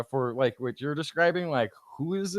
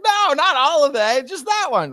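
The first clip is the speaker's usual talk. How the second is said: higher, louder mock protest; exasperated child correction; 10 semitones higher, 7 dB louder than usual. Child objecting to a parent's overdone reading, mock exasperation. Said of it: "And they're like".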